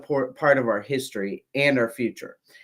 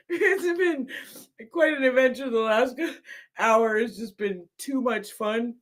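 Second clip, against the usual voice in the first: high voice with giggles breaking in; trying to talk while the laughter fades; still laughing; 9 semitones higher than usual. Real, not acted. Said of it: "Sorry, I'm crying, laughing so hard".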